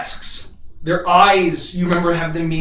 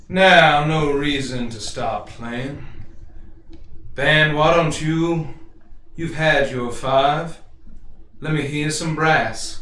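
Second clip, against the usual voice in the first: Nemo's voice. Acted. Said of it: "that same voice call out".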